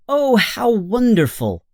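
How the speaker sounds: high, bright with joy; Lost Boys thrilled at a new home, excited high cry; delighted cry. A narrator's reading. Lost Boys cheering at London, delighted high exclamation. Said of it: "the Lost Boys say".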